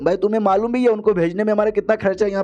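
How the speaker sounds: high-pitched, incredulous rebuke; acted outrage of an annoyed ruler; indignant scolding. Acted king scolding after an apology.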